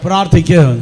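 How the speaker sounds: forceful, spaced-out call; loud, emphatic call to repeat; with power. Shown as a demonstration. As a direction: say it with strength, word by word. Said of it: "ശക്തിയോടെ".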